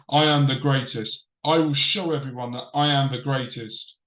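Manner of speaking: flat, droning wrestling promo; monotone voice. Retold or imitated. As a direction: recite it like a script with no feeling. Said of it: "so it's like a monotone".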